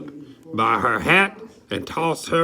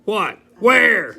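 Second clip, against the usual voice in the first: mock shout; 7 semitones higher than usual. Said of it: "Mister Noisy and Mister Stubborn shouted".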